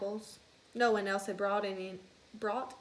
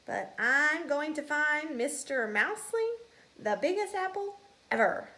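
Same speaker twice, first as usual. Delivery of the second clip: higher, louder little mouse; eager young mouse; 6 semitones higher, 5 dB louder than usual. Acted. House mouse telling classmates, higher and eager. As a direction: pipe up like an excited kid.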